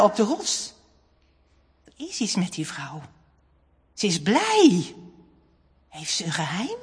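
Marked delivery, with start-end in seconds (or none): none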